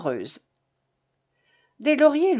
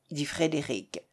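usual speaking voice

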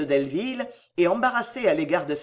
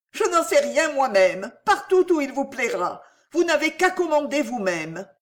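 lightly voiced woman, higher pitch; flustered young woman; 7 semitones higher, 3 dB louder than usual. A narrator's reading. Cécile leaving the destination to Delville, flustered. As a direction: answer higher, a touch flustered.

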